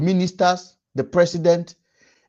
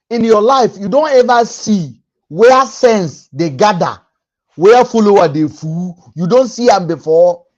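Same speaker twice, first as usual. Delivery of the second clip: emphatic rant; 5 dB louder than usual. Real, not acted. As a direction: drive the point home at the audience. Ranting at viewers about followers.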